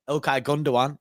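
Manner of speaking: Gundogan said as "GOON-do-wan", silent g; correct pronunciation. Shown as a demonstration. Host teaching the footballer's name, correct pronunciation. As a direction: say Gundogan with a w sound, ending "-wan". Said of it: "is the way to say it".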